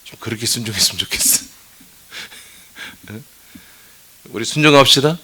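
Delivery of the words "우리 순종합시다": louder, rallying call to obey; loud exhortation. Acted. Pastor rallying congregation to obedience, loud exhortation. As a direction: urge the whole room to obey.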